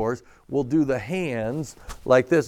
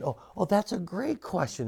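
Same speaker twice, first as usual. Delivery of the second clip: puppet whisper; 6 semitones higher, 6 dB quieter than usual. Shown as a demonstration. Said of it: "He can whisper in your ear".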